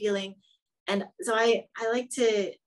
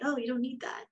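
a gentle, soft reassurance; soft and kind, like soothing a friend; kindly; 3 semitones higher, 5 dB quieter than usual. Shown as a demonstration. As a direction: let it go softly, no scolding. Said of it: "and kindly say".

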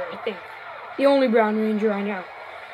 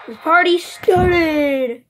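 hero catchphrase; 3 semitones higher, 4 dB louder, much slower than usual. Pretend.

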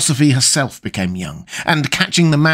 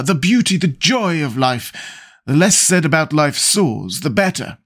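a hint of a languid aristocrat, higher; lightly voiced witty lord; 5 semitones higher than usual. Lord Henry holding forth to the table, lightly voiced. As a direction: toss off the epigrams with a light aristocratic air.

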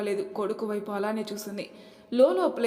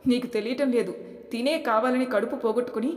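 sharp, raised retort; angry; 3 semitones higher, 5 dB louder than usual. Acted. Sister defends herself to her brother, angry. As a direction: snap back at the brother, indignant. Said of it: "కోపంగా అంది సునీత".

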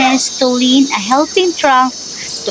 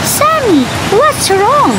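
concerned; 10 semitones higher than usual. Acted. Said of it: "asked Ellie, concerned".

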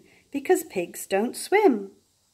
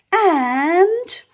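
loud, drawn-out excited splash; big splash; 3 semitones higher, 5 dB louder than usual. A narrator's reading. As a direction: make the splash the big moment. Climax of pig jumping.

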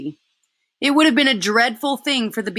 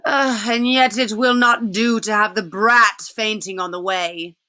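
slow, cold witch voice; a hint of the witch, half to herself; witch muttering to herself; 3 semitones higher, 3 dB louder than usual. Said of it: "as if to herself".

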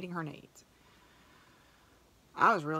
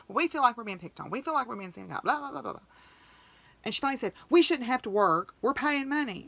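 higher, put-upon whine of an indignant mother; mocking complaint; 6 semitones higher, 3 dB louder than usual. Teller mocks the agitated mother complaining about being singled out, whiny and indignant. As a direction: mimic her huffy entitlement.

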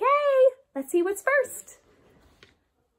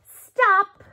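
put-on broad singsong kids theatre; 5 semitones higher, much slower than usual. Kids music class game.

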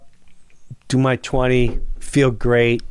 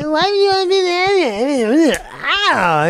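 laughing through the quote; 10 semitones higher than usual. Retold or imitated. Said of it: "He's like".

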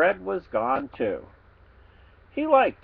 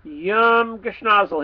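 pig voice; 5 semitones higher, 4 dB louder, slower than usual. Acted. Pig finishes the treat.

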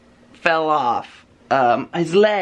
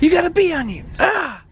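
mock alarm; 13 semitones higher than usual. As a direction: fake a startled yelp.

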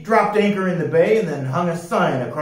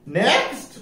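high parrot squawk; squawking bird; 10 semitones higher than usual. A narrator's reading. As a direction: squawk the order with a rising tone. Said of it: "squawked the bird".

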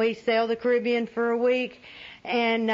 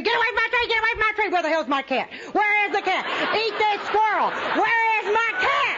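screaming at squirrel; 9 semitones higher than usual. Retold or imitated. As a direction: chase the squirrel off the bonsai, screaming.

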